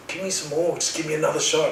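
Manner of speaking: high, urgent pleading; retold panic. Patient begging the nurse for another shot, panicked plea. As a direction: plead for it, pitch jumping up. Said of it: "in this sort of panic stage".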